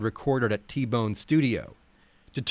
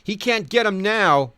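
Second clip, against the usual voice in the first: smiling; 9 semitones higher, 5 dB louder than usual. Retold or imitated. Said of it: "Odom smiled to a friend".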